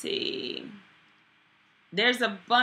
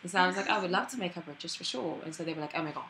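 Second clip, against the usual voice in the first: put-on British accent, chatty storytelling. Actress retelling her audition, British accent. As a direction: recount it in a comfortable British accent.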